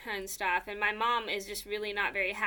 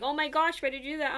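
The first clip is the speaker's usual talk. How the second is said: higher-pitched imitation of shocked friends; retold gasping disbelief, lightly acted; mock shock; 5 semitones higher, faster than usual. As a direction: play a scandalized classmate.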